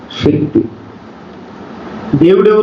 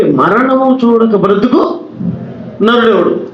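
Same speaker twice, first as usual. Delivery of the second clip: slow scripture recitation; 5 semitones higher, slower than usual. Shown as a demonstration. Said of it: "బాగా వినాలి మీరంతా".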